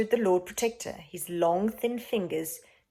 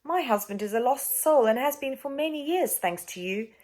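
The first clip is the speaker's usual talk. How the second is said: sad; 5 semitones higher than usual. Acted. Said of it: "glanced sadly".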